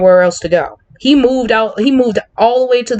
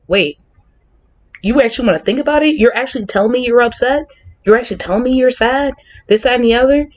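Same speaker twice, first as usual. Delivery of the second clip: partners' surprised quote; 5 semitones higher than usual. Retold or imitated. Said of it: "partners who were like".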